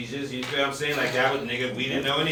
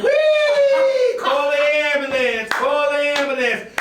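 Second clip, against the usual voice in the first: put-on child voice; 11 semitones higher, 6 dB louder, slower than usual. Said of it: "her daughter's in the back, like".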